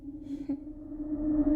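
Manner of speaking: a little breathy laugh under the breath; soft breathy chuckle. Acted. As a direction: chuckle quietly to yourself. Receptionist chuckles at own joke.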